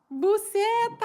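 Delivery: high pitched shouted word; mock shout. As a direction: yell it across the field. Mom shouting at goalkeeper son.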